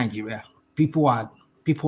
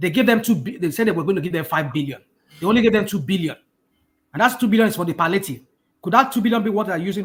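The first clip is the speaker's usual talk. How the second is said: loud, raised, pitched-up voice; 7 semitones higher than usual. Insisting the other person isn't listening, the speaker explains with a raised voice. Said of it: "sorry, I'm not trying to hear- raise my voice".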